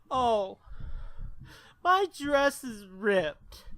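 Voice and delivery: high, slow, drawn-out lament; dazed drunk girl. Retold or imitated. Drunk girlfriend telling boyfriend her dress is ripped.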